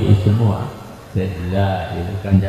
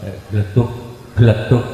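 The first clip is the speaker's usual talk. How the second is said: bumpy wheel sound; 2 semitones higher, faster than usual. Shown as a demonstration. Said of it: "benjol begitu".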